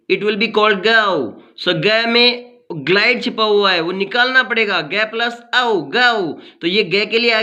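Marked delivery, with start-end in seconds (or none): 0.9-1.4 "गौ" said slowly with a gliding au vowel; pronunciation demo. Shown as a demonstration. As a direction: draw out the glide in "गौ". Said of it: "जीओ को हम गो नहीं बोलेंगे".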